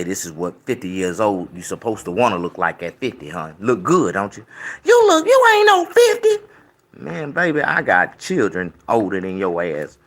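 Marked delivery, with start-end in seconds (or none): 4.8-6.4 mock disbelief. Flirty disbelief at own look.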